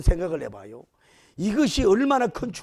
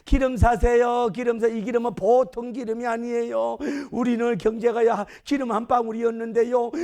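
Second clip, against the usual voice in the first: lightly acted oil seller, higher pitch; street hawker; 3 semitones higher than usual. Sons selling oil given by a miracle, lightly voiced hawkers. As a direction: pitch it like a hawker touting wares. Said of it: "그래서 아들도".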